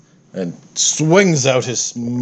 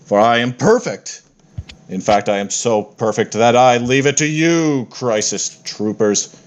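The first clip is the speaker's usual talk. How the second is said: grand, slow, self-satisfied deity; lightly voiced pompous war god; boastful god voice. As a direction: announce yourself as an unbeatable god. Fitander continues his boast.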